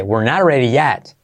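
"yet" with its E opened toward an A; "ready yet" with E sounds leaning to A. Shown as a demonstration. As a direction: open the vowel in "yet" wide, almost "yat". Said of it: "esa E tiende a una A".

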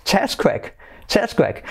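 CHESSQUAKE as "CHESS-kwek"; correct pronunciation. Shown as a demonstration. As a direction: repeat CHESSQUAKE with a short e. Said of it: "se dice".

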